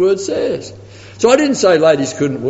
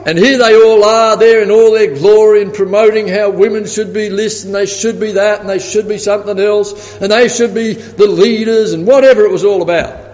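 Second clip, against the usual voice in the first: rising indignation; 4 semitones higher, 4 dB louder than usual. Real, not acted. Preacher building indignation.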